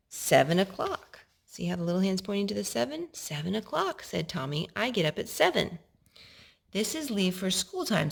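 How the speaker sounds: put-on gentle storybook read-aloud to a little boy; bedtime-story reading voice; reading to a child. A narrator's reading. Parent reads story aloud to child.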